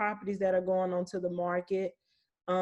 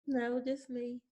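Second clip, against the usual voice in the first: joking; 5 semitones higher, 5 dB quieter, slower than usual. Pretend. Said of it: "I'm playing".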